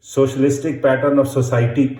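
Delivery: socialistic pattern of society dictated slowly, word by word; slow dictation. Shown as a demonstration. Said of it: "you can do like this".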